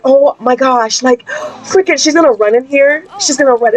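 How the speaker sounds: squeaky panicked oh my gosh, high; rising into a panicked squeal; panicked daughter. Retold or imitated. London panicking that her mom will find out, squealing. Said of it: "She's like".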